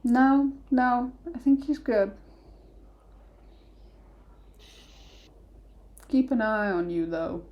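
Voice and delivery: lightly voiced stern dwarf.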